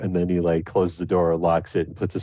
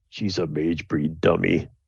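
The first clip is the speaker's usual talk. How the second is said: muttering quietly under his breath. Voicing a dwarf shopkeeper who mutters about a customer: muttering under his breath. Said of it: "you hear him mutter under his breath".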